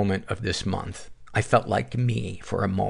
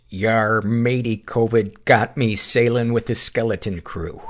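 a hint of a pirate, barely committed; a lightly voiced pirate; a half-hearted pirate growl that never quite commits; 3 dB louder than usual. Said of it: "he said in his best pirate voice".

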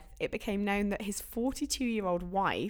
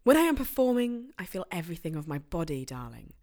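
hammed-up celebrity quote. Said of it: "a direct quote".

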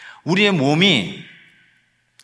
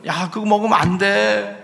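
parent's mild scolding; 4 semitones higher than usual. Retold or imitated. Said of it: "이런 말을 하잖아요".

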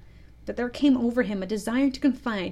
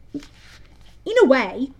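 slow, higher, hesitant sidekick; Smee the pirate; 3 semitones higher, 6 dB louder, much slower than usual. A narrator's reading. Smee consoling Hook about the crocodile, slow and tentative. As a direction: stretch it out as a tentative offering. Smee's voice in story.

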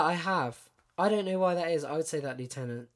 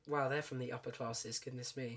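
posh voice; 8 dB quieter than usual. Retold or imitated. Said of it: "That sounds really posh to me".

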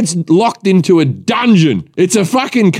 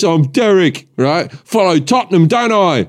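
put-on Cockney accent; 2 semitones higher than usual. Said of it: "talks like this".

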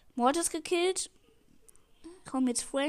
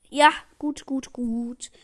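loud burst of relief; relieved cheer; 8 dB louder, much slower than usual. Real, not acted. Gamer after a close save, loud relieved cheer. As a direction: cheer out loud as the danger passes.

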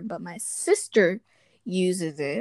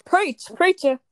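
hype cheer; 10 semitones higher, 5 dB louder than usual. Real, not acted. Cheering on co-host's rant.

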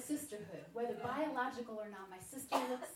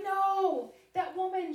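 louder, higher insistent no; eager friend; 7 semitones higher, 9 dB louder, slower than usual. Retold or imitated. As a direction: rush in to correct her.

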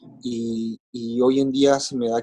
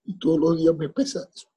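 higher, strained voice fighting tears; voice breaking; 10 semitones higher than usual. Real, not acted. Father blaming himself for his son's death, voice breaking. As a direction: push the words out through grief after long silences.

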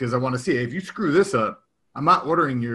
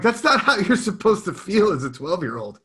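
higher-pitched, taken-aback objection; dismayed retort; 7 semitones higher, 3 dB louder than usual. Retold or imitated. Dad to nervous twelve-year-old son, taken aback. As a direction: object in mild disbelief.

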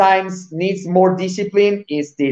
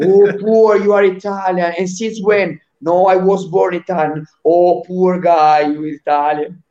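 mock pity. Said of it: "it's like a disease".

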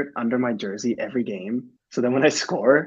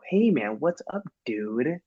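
put-on lazy drawn-out American dude accent, slowing on dude; a hammed-up American surfer-dude greeting; mock American accent; 3 semitones higher, slower than usual. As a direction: tease your own American accent the way teammates do. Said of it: "how much I get made fun of for my American accent".

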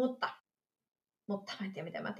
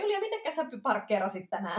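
lightly voiced male colleague; 2 semitones higher than usual. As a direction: quote a colleague's question in a raised voice. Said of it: "mieskollega siinä silleen". (työkaverin matkiminen korkealla äänellä)

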